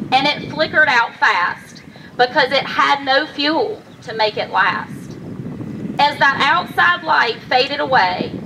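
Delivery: measured rhyming storytelling, pausing between lines; heartfelt poem, phrased line by line; poem recitation. Acted. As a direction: recite a personal poem to an audience. Recites own poem on stage.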